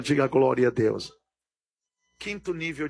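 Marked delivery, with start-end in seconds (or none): 0.0-1.1 preacher's call. Real, not acted. Preacher asks the congregation for a glory, deep call. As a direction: ask the church to answer, deep and firm.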